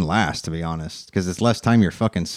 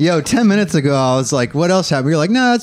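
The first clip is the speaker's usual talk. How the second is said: higher teasing impression of a friend; mock storyteller; 6 semitones higher than usual. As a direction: tease him by playing his casual retelling.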